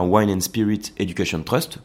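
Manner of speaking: English name with a French accent; approximate English accent. Real, not acted. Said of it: "avec un accent très approximatif".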